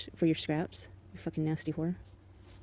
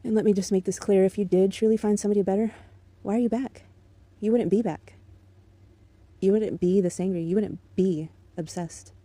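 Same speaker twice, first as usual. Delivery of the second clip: heated confrontation; raised voice; 4 dB louder than usual. Real, not acted. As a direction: push it out, laying down the law. Angry rant at ex.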